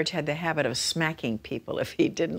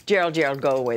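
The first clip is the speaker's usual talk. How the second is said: louder brush-off, waving him off; mock shooing; 5 dB louder, much faster than usual. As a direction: shoo him away, loud and short. Cukor shooing Leslie away.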